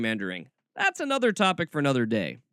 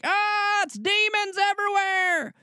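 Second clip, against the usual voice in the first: much higher hammed-up shriek of panic; mocking frightened believer. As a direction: play a terrified zealot seeing demons. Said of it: "as like".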